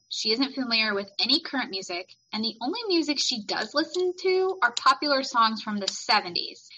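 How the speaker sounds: measured, emphatic read-aloud of a summary; book blurb reading. Acted.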